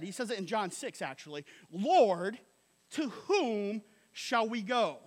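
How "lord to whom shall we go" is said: 2 sincere plea. Retold or imitated. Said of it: "here's what Peter said".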